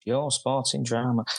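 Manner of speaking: slow, mock Scouse accent; bad Liverpool accent, drawn out; jokey Scouse take on the answer. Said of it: "In a Scouse accent, or?".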